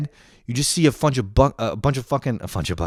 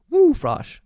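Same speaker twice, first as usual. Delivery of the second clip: mock cheer; 3 dB louder than usual.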